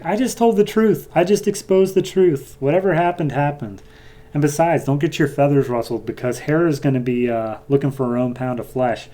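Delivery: a lightly voiced smug trickster; smug Strife. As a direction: brush it off like it's nothing. Strife defends herself, retold.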